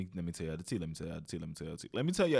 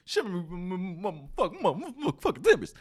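laughing stammer; 9 semitones higher, 7 dB louder than usual. Acted. Stammering pirate phrase joke.

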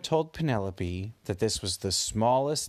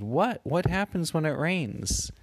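put-on higher, eager child asking; curious kid voice; 7 semitones higher than usual. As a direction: ask it like an excited little kid. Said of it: "Penelope and Jonah said".

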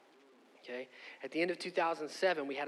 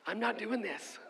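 put-on child refusing; 5 semitones higher, slower than usual. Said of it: "she starts to yell".

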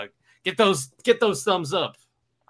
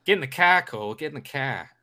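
put-on Boston accent. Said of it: "do a Boston accent".

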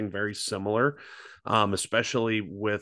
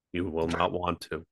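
flat, soft monotone read; 3 semitones lower, 4 dB quieter than usual. Shown as a demonstration. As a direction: drone it out with no life, softer. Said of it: "I will read them in monotone of voice".

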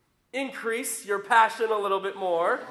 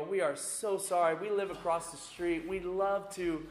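kind apology; 5 semitones lower than usual. Retold or imitated. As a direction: imitate kindly neighbors offering amends. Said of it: "they are just so kind".

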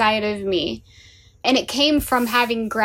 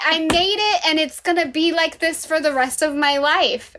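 naive elated self. Retold or imitated. Mocking her naive past self.

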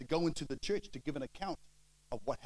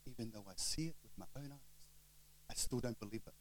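disbelieving onlooker; 4 semitones lower, 9 dB quieter than usual. Retold or imitated. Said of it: "goes like this".

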